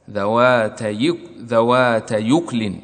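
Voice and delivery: ذوات يكل said slowly with the hamza dropped; Warsh reading. Shown as a demonstration. Teacher repeating the Warsh form slowly. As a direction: stretch out ذوات يكل, no glottal stop. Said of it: "ورش يقرأ بإسكان الكاف".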